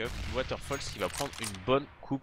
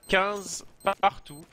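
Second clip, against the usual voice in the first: drawn-out hype call; 8 semitones higher, 3 dB louder, much slower than usual. Real, not acted. Caster announces overtime score.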